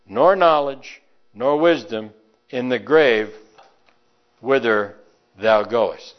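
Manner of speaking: slow, weighty scripture reading. Acted. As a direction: lay each phrase down solemnly. Reads scripture aloud.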